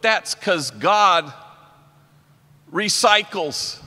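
slow, drawn-out punchline. Acted. Landing the recycling joke to the audience, slowly. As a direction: stretch it out for the laugh.

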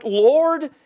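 anguished plea, high and loud; cry out. Acted. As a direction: cry it up to the Lord. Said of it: "should be to cry out".

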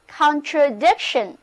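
"contradiction" with the main stress on DIC; stress on third syllable. Shown as a demonstration. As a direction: model "contradiction" for repeating, leaning on its third syllable. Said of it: "重音放在第三个音节上". (“contradiction”重音放在第三个音节dic上)

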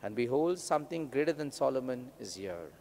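measured, solemn gospel reading; scripture reading. Real, not acted. Priest reads the gospel aloud.

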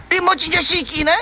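high, worried question to the frog; anxious question. Acted. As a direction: ask if your friend is really dead. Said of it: "我问一下".

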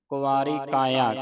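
ਕਾਇਆ said without nasalizing, plain kaa-i-aa; ਕੁਵਾਰੀ ਕਾਇਆ with no nasal sound; teacher demo of ਕਾਇਆ without a bindi. Shown as a demonstration. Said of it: "ਪਰ ਬਿੰਦੀ ਨਹੀਂ ਲਾਉਣੀ".

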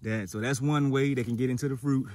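breathless after swimming laps; out of breath. Real, not acted. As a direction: talk while still catching breath. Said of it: "I'm a little out of breath".

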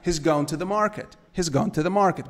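"He's gone" with "has" shrunk onto "He"; contracted "has". Shown as a demonstration. Teacher drilling the short form for students, "He's" contracted. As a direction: run "He's" together as one short syllable. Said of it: "quando você coloca na forma contracta".

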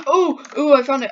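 high, loud delight; excited discovery. Real, not acted. Player finding the cheese at last, excited. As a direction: exclaim it the moment you spot it.

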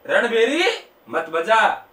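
slow, drawn-out, lightly tuneful plea; mock melodious voice. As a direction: stretch the words in a put-on musical voice. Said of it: "सुरलिया आवाज में कहा". (धीमी, हल्की सुरीली आवाज़ का अभिनय)

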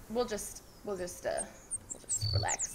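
fading to a whisper; quiet. Real, not acted. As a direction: trail off softly. Resting, fading out.

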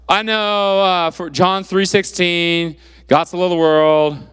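slow, mock rote recitation; mumbly rote recital. Shown as a demonstration. Preacher imitating someone reciting John 3:16, mumbly rote. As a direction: drag it out like a half-known memory verse. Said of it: "just repeating it mumbly".

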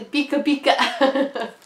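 slow, lightly voiced Pikachu cry; a hint of the cartoon critter. Reading the back of the pin.

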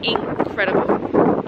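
breathy awe. Real, not acted. Awed by the view.

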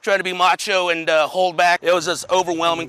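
emotional, choked up, holding back tears; fighting tears while trying to stay composed. Real, not acted. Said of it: "I'm choked up talking about it".

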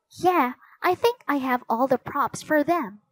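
lightly voiced girl character; Annie, eager girl.

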